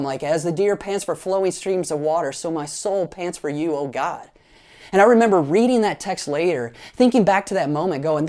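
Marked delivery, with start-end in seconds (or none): 0.2-4.3 solemn and calm. Retold or imitated. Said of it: "solemn and calm".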